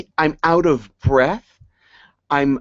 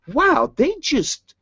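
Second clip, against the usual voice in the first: awed wow; 13 semitones higher, much slower than usual. Retold or imitated. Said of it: "He says, ones that you're like".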